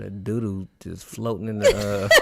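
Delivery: talking through laughter; laughing. Real, not acted. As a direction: crack up mid-sentence. Laughing recalling floating turd.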